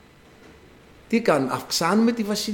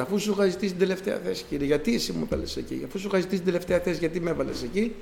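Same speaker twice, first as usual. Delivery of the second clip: quick, soft whining complaint to God; mock grumbling; 6 dB quieter, faster than usual. Priest retelling his complaint to God, quick soft grumbling. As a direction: grumble it fast under the breath like a sulking child. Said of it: "πάλι τον γκρίνιαζα".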